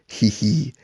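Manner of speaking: small mock giggle from the Grinch; villainous snicker. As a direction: give a short, light scheming chuckle. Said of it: "And he'll laugh".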